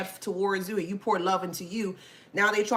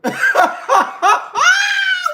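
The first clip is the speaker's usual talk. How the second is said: loud high laugh; 12 dB louder than usual. Real, not acted. Big laugh.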